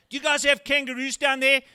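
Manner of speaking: wide-eyed excited questions. Retold or imitated. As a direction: gush like an overexcited fan. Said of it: "equally excited questions".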